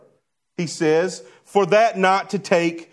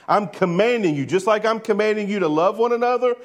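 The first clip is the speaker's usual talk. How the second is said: commanding, higher-pitched insistence; slightly raised voice; 4 semitones higher than usual. Acted. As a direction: issue a firm command, voice a little raised. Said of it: "he may have raised his voice a little bit".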